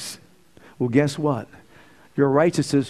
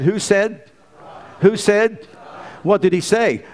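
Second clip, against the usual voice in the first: calling out; 6 semitones higher, slower than usual. Real, not acted. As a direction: fire the question at the crowd. Preacher calling out to crowd.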